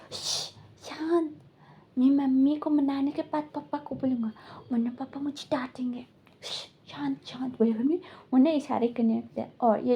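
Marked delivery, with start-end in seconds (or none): 0.1-7.6 soft hushed shushing, fading ever quieter. Retold or imitated. Child hushing others so papa won't scold him, softly. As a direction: keep it secret, hush them down.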